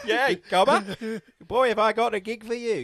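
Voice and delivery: slow, loud Aussie drawl; laconic outback drawl. Retold or imitated. Continuing Australian accent bit.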